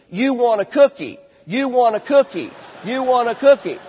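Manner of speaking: firm repeating. Shown as a demonstration. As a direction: echo the child back loudly. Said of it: "you just repeat".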